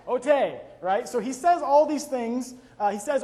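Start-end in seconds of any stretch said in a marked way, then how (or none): 0.1-0.6 put-on loud, eager little-kid "oh-TAY"; gleeful mock-toddler outburst; enthusiastic toddler imitation. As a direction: mimic an excited child who can't say K. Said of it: "he says it really enthusiastically".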